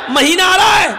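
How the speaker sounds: high-pitched acted exasperation; retold scolding, pitched high; exasperated shout. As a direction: call out impatiently to someone not getting it. Retold exasperated calling, translated.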